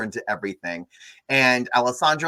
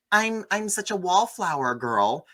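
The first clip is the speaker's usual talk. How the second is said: higher, slow mock-shy voice; mock wallflower girl; 6 semitones higher than usual. Podcaster mocking the boring heroine in a mock-shy voice. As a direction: parody the mousy girl, drawn out.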